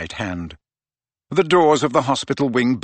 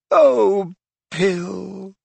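anguished; 9 semitones higher, 3 dB louder than usual. A narrator's reading. Mother sees her son's mangled face, anguished. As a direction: start loud, fade on the name. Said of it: "whispered Missus Weasley".

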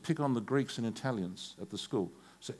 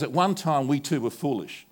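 1 quoting Paul; 6 dB louder than usual. Retold or imitated. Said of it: "He goes".

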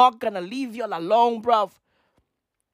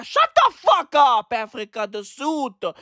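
mock French accent. Quoting French critics about himself, mock French accent. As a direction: shut the fuck up in a French accent, vowels flattened to ah. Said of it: "This boy in Africa the Sud".

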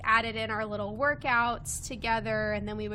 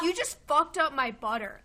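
laughing mock anger; 4 semitones higher, 4 dB louder than usual. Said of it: "he got so mad".

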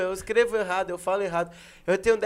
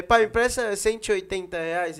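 mock son asking. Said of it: "Ele fez um recente agora".

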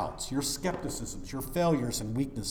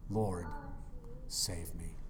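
quiet prayer; 8 semitones lower, 7 dB quieter, slower than usual. Retold or imitated. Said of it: "Peter's prayer is now my prayer".

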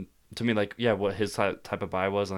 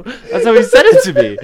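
laughing hard while explaining; 15 dB louder than usual. Real, not acted. Laughing defending the voice.

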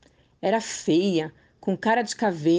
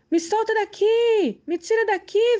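desperate scream; 11 semitones higher than usual. A narrator's reading. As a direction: scream to be let out. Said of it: "gritava desesperada".

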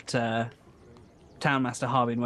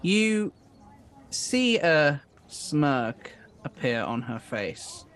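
measured narration with drawn-out phrases; game master's scene setting; slower than usual. Acted. Game master tells players of the captive's smirk, suspenseful narration. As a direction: set the scene slowly, pausing between phrases.

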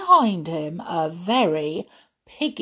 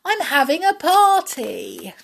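high, excited party announcement; lively high-voiced hostess; cried out; 10 semitones higher, 4 dB louder than usual. A narrator's reading. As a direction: call it out gleefully, pitched way up. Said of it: "she cried".

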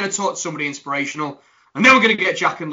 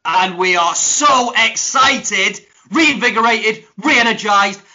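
hyped-up host; 4 semitones higher, 5 dB louder, slower than usual. Acted. Hyped intro continues.

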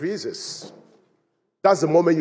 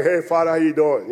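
casual prayer; 2 semitones lower than usual. Retold or imitated. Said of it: "you're praying like".

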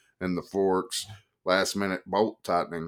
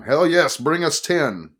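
loud order; 9 semitones higher, 7 dB louder, slower than usual. Acted. Narrator slaps bar, orders.

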